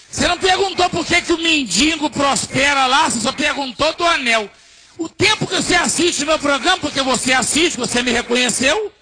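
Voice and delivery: indignant scolding. Retold or imitated. Pastor rebuking the waitress who asked only about his ring, indignant scolding. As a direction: scold her, pushing pitch and volume up.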